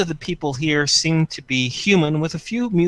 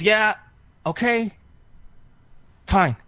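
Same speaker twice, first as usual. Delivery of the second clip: grudging; 9 semitones higher than usual. Acted. Ending the call.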